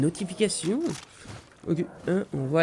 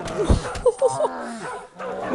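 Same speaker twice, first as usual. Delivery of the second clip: very high-pitched laughing cry; high cackling whoop. Real, not acted. Player attacked by the bear, high hysterical laugh. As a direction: let out a high burst of laughter.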